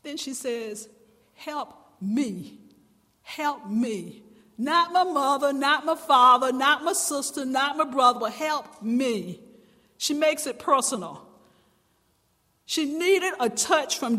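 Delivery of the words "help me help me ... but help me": pleading cry. Acted. Woman's plea, making it personal.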